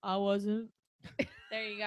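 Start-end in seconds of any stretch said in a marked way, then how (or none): 0.0-0.7 low boxer impression; Rocky. Doc Holliday coolly answering Johnny Ringo, as Rocky. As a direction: answer briefly as a dull-voiced fighter. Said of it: "as good as my Rocky".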